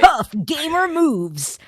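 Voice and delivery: slow, pumped-up tough gamer voice. Pretend. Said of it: "That's the gamer voice".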